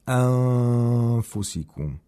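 hide the ن of أنفسكم in a held nasal hum before ف; ikhfa. Shown as a demonstration. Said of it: "a nasal sound is made for two vowel counts".

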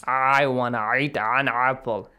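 "I", "eat", "an" and "apple" slowly opened with throaty ayn; slow "I wanna eat an apple", each vowel squeezed in the throat; exaggerated ayn. Shown as a demonstration. Teacher giving a practice phrase, "apple" said with ayn. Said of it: "Practice this".

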